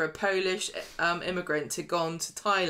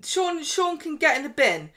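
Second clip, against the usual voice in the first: exasperated; 9 semitones higher, 5 dB louder than usual. Real, not acted. Fan outraged at character.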